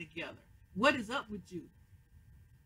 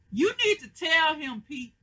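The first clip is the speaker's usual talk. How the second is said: urging; 8 semitones higher, 8 dB louder than usual. Real, not acted. Recapper urging character on screen.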